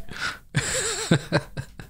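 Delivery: breathless squeaky laugh; cracking up in high wheezes; high wheezing laugh. Real, not acted. Laughing again at the game.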